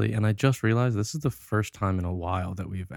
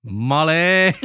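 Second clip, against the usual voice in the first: eager shout; 8 semitones higher, 7 dB louder than usual. Real, not acted. Eager pick.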